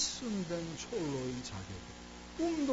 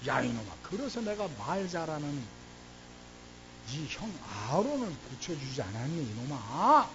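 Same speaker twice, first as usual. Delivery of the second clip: God fuming. Acted. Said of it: "하나님이 열받으셨습니다".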